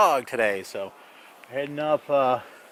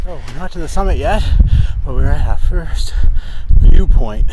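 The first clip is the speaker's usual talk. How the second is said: excited; 2 semitones higher, 10 dB louder than usual. Real, not acted. Reaching first viewpoint.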